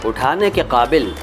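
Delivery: slow, lilting shayari recital; poetry recitation. Acted. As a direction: savour each line of the couplet. Recites a sher. (शायराना अंदाज़ में धीमे पढ़ना)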